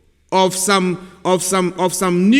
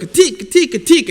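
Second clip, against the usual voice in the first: high, angry fake-Russian gibberish; imitating an angry leader in made-up Russian; mock angry Russian; 7 semitones higher than usual. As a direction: bark pretend Russian like a furious Putin. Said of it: "Vladimir Putin was angry and he was like".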